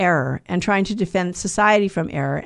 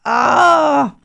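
mother's dismay; 4 semitones higher, 6 dB louder than usual. Acted. Mother sees mud on floor.

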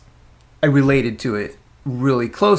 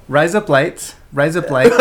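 evenly repeated phrase that lands as Aussie "razor blades"; accidental Aussie accent. Shown as a demonstration. Testing the trick phrase on himself, Aussie accent. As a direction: say "Rise up lights" so it passes for Australian. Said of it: "That is your Aussie accent".

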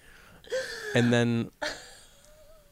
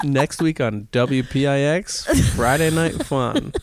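TV announcer; 3 dB louder than usual. Pretend. Mock TV promo tease.

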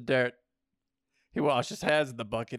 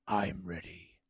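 agreeing; 6 semitones lower, 5 dB quieter, slower than usual. A narrator's reading. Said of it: "she agreed".

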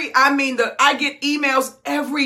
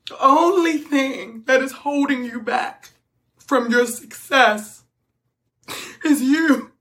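choked up; 4 semitones lower than usual. Real, not acted. Choked-up coach, long pauses after crying.

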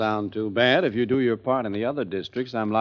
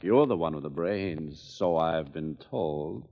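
low, dragged-out sarcasm; sarcastic; 5 semitones lower, 4 dB quieter, slower than usual. Acted. Candidate needles his campaign manager about brains, sarcastic. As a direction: needle him dryly, slowing at the end. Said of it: "Don't get sarcastic".

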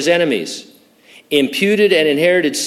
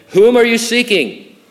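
commanding question; 9 semitones higher, 4 dB louder than usual. Retold or imitated. Jesus questions arresting soldiers.

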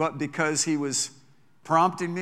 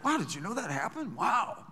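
a high, marvelling wow; amazed wow; 5 semitones higher, 4 dB quieter than usual. Retold or imitated. Preacher marvels at the apron miracles, high and amazed. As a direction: sound like you just learned it and can't believe it. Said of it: "It's like".

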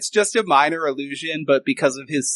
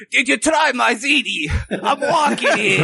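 mock mother voice; 8 semitones higher than usual. Magician's illusion of Carl's mother talking, high mock mom voice. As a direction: throw out a silly high mother impression. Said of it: "and she's like".

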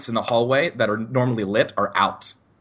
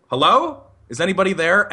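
higher-pitched questioning call; raised, rising call; calling out warily; 5 semitones higher, 4 dB louder than usual. Retold or imitated. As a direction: call out to whoever is at the door. Calling out to unknown knocker.

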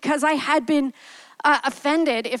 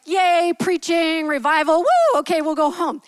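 mock excitement; 2 semitones higher than usual. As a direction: poke fun at the expected hype. Mocking her own low expectations.

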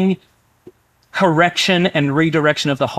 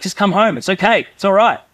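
reassuring Father; 5 semitones higher than usual. Acted. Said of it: "That voice of reassurance".

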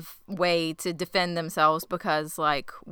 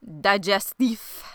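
slow, lightly French-accented pronunciation; slower than usual. Shown as a demonstration. Podcast host announcing the episode title, in a French accent. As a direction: give the word a touch of French accent. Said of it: "say it with a French accent".

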